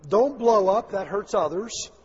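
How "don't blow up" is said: DON'T punched loud; preached warning not to blow up; emphatic don't blow up. Shown as a demonstration. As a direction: hit don't hard, louder. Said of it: "preacher emphasis".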